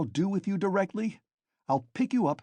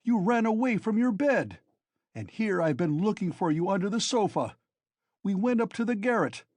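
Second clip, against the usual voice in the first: much higher, loud furious scolding; angry; 8 semitones higher, 4 dB louder than usual. A narrator's reading. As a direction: berate him like a furious friend. Razumihin angrily confronting Raskolnikov.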